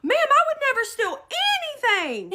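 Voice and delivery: high, loud, hurried protest; retold pleading. Shopper defending herself to accuser, retold frantic pleading. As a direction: plead innocence in a frantic rush. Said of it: "pleading to this woman".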